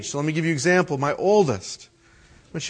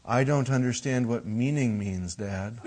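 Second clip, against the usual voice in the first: put-on softer, innocent child's reply; 5 semitones lower, 8 dB quieter than usual. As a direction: play dumb like a small boy. Son's reply voiced in story.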